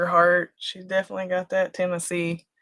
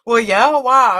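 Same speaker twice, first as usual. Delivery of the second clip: imitating Randy; 4 semitones higher, 9 dB louder than usual.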